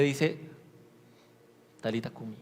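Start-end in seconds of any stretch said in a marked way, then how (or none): 1.8-2.4 más grave y mucho más suave; Jesús despertando a la niña. Retold or imitated. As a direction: como quien despierta a una niña dormida. (Jesús susurra suave a la niña)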